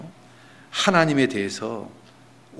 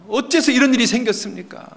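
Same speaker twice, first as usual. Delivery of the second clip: high-pitched aggrieved question; acted protest, pitched way up; complaining to God; 9 semitones higher, 4 dB louder than usual. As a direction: cry out against what has happened. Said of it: "하나님께 막 불평을 하고 있습니다".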